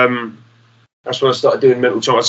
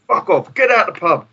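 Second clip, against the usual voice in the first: higher, imitated dismissal; mock angry landlord; 8 semitones higher than usual. Landlord Jack dismissing the band again, imitated anger. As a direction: wave them off like a grumpy landlord. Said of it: "And he's like".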